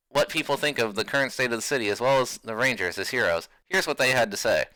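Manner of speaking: lightly voiced TV news report; newscaster voice. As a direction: read it like an evening anchor. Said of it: "I'm just gonna use my newscaster voice".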